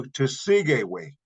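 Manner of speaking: Tesigeway said carefully with a falling end; Paiute word spoken clearly. Shown as a demonstration. Teacher modelling Tesigeway for students, carefully. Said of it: "it will change to".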